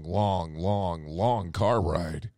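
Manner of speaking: ordinary delivery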